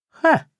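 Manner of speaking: sharp high scornful "Ха"; loud contemptuous snort-laugh. A narrator's reading. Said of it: "фыркнула она".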